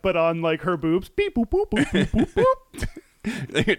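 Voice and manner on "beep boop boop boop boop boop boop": laughing high beep boops; Star Trek beeps. Pretend. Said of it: "It's like a Star Trek".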